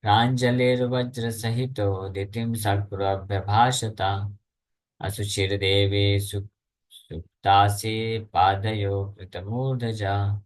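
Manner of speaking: slow, measured scripture chant; Sanskrit verse recitation. Acted. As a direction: recite the shloka with drawn-out syllables.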